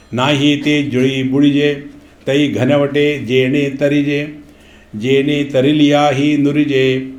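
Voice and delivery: slow, measured recital of a sacred verse; slow verse recitation. Acted. The Swamiji recites the verse to his listeners, slow and measured. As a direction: intone it like scripture.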